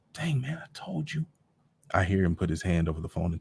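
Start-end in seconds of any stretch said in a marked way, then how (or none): 0.1-1.2 put-on hushed kid whisper to his brother. Boy whispers to his brother behind the phone. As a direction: whisper it so mama won't hear.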